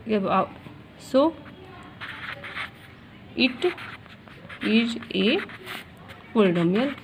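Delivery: teacher dictating the model answer to students; slow dictation. Shown as a demonstration. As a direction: answer dictated word by word with long gaps. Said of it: "मतलब power लिख दीजिए".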